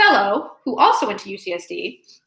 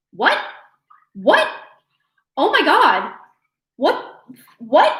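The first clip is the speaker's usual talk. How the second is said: shocked disbelief; 5 semitones higher, slower than usual. Real, not acted. Sale of five items arrives.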